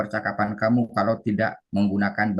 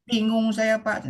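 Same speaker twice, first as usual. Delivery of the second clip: confused student; 13 semitones higher, slower than usual. Retold or imitated. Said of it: "kata muridnya".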